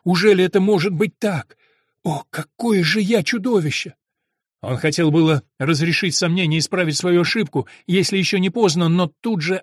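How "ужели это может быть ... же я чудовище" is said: rising horror, louder and higher; horrified outcry. A narrator's reading. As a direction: cry out in self-disgust. Monk horrified at himself.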